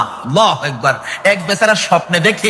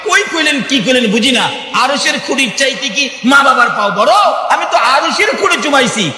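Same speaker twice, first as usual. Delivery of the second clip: scoffing laugh; 6 semitones higher than usual. Acted. Man scoffs at the saint.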